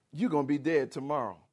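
ordinary talk, nothing marked

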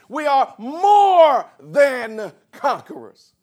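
slow, high, loud, stretched out; triumphant cry. Acted. Pastor proclaiming victory, slow triumphant cry. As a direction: ring out the victory. Preacher cries the climax.

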